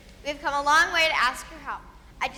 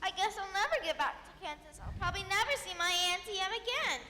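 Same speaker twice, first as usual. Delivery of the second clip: mild, higher-pitched lament; tearful despair; 4 semitones higher than usual. Acted. Little girl fears never getting home, close to crying. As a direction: let a touch of tears lift the voice. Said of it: "Don't cry".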